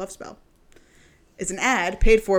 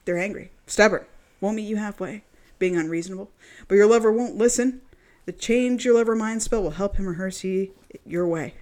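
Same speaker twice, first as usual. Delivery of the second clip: ad read. Acted. Reads love spell product page.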